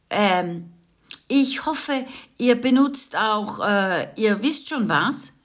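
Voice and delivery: hint at it with a cheeky, hesitant grin; grandma joking to the teenagers, lightly voiced cheeky grandma. A narrator's reading. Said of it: "scherzte die Oma".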